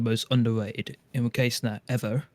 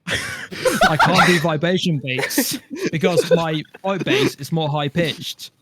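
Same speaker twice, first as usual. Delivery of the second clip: laughing; 3 semitones higher, much slower than usual. Real, not acted. Laughing while explaining own limitation.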